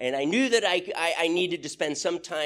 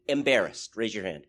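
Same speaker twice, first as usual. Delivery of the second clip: ordinary delivery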